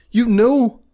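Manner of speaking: high, accusing mock question; imitated mad boss. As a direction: demand it like an outraged boss. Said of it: "as he gets mad".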